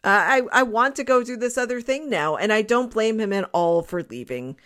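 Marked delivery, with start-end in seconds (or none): 0.0-2.4 imagined player's explanation. Retold or imitated. Voicing departing player explaining himself.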